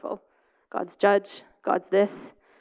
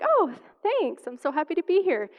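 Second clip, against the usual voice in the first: retold eager thanks; 6 semitones higher than usual. Her own dream reply retold.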